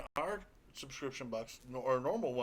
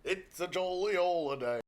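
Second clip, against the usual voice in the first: lilting mock-British delivery; badly faked jolly English accent; 2 semitones higher than usual. Capping the England joke, hammed-up English accent. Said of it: "we're terrible at the accent".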